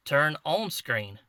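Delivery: slow, careful command to a device. Shown as a demonstration. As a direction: spell the command out slowly for the camera. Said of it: "guess it can't understand my, my, uh, country accent".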